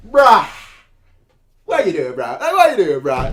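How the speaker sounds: laughing mock taunt. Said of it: "to that one who's like".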